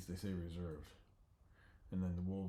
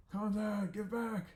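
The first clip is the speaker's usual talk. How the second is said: high, slow, louder plea; dopey bear; 12 semitones higher, 5 dB louder, slower than usual. Acted. The bear asks Bodhi for the contact, high and slow. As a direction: drag it out like a dim bear.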